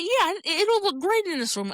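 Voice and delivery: high, breezy mock of the lady; airy, oblivious singsong; mock cheery. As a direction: parody her chirpy sales voice. Mocking the funeral lady.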